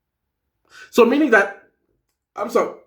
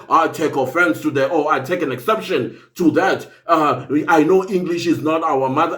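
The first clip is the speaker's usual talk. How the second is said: Baloyi; 5 semitones lower than usual. Retold or imitated. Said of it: "for Baloyi to get up and say".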